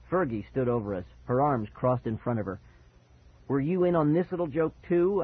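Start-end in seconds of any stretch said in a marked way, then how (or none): 3.5-5.2 higher, accusing question; angry demand. Acted. Child confronts friend about prank, angrily demanding. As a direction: demand an answer with mild anger. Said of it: "I demanded angrily".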